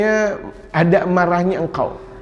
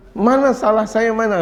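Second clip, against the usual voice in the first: higher-pitched mock self-defence; indignant protest; 5 semitones higher than usual. Wife asks husband what she did wrong, mock indignant. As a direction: act out a wife demanding to know her fault.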